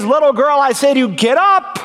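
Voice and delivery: preacher acting out a command to a child; Jesus commanding. Jesus commanding the dead girl to rise.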